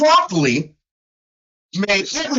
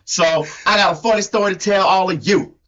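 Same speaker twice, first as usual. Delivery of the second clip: put-on country accent; storyteller with a mock country twang; Hee Haw Tony. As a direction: imitate your co-host's hillbilly accent. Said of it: "has to sound like me".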